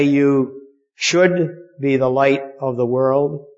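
"should" leaned on and drawn out; slow line, weight on "should"; stress on SHOULD. Shown as a demonstration. Preacher quotes what Jesus didn't say, stress on SHOULD.

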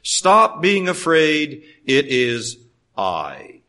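calm reassurance. Retold or imitated. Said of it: "He says".

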